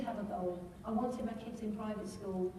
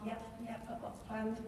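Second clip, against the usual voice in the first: sheepish inner voice; 7 dB quieter than usual. Retold or imitated. Inner thought, dreading the meeting.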